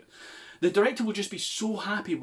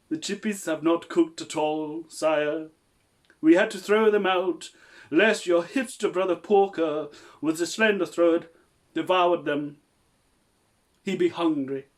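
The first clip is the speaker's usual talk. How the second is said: hammy servant voice; 3 semitones higher, 5 dB louder than usual. Acted. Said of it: "I'm gonna read aloud".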